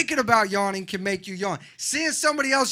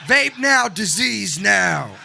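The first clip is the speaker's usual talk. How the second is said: spooky voice; 7 dB louder, much slower than usual. Pretend. Spooky doom chant.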